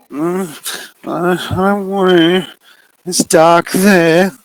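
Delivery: put-on high, timid child's voice; scared little girl. Maddie refusing to come into the dark, timid. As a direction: refuse in a tiny frightened voice.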